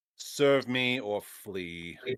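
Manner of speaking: most commanding, authoritative voice possible. A player character confronts a ghostly creature, in a commanding voice. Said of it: "in the most commanding voice I can muster".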